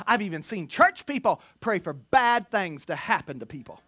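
usual speaking voice

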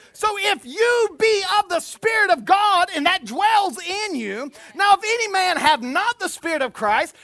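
loud, high, sustained preacher's proclamation; stretched, high-pitched pulpit delivery; full-force scripture preaching. Acted. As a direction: declaim the verse at full voice.

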